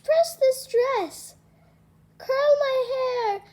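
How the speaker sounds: high, bossy string of orders; a spoiled stepsister barking chores, pitched high; high, demanding stepsister piling on chores. Acted. Stepsister ordering Cinderella about.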